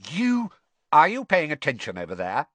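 put-on teacher calling out to stray boys; strict teacher raising her voice to the back; teacher calling across. A narrator's reading. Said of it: "Professor Grubbly Plank's voice carried over".

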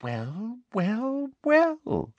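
smug villain's drawn-out relish; triumphant Umbridge. A narrator's reading. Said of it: "looking triumphant".

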